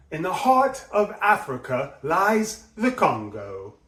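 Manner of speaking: bright punch on heart, then on Congo; emphasis on heart and Congo. Shown as a demonstration. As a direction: hit the words that matter. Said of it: "putting really bright, energetic emphasis on the words that matter".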